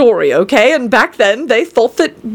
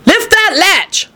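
put-on high, slow, frail old woman calling; old grandmother calling to the visitor, high and slow; 9 semitones higher, slower than usual. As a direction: call weakly from the bed, drawn out. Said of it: "called out the grandmother".

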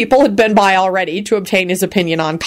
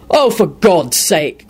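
barking; much slower than usual. A narrator's reading. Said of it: "Quentin barked out".

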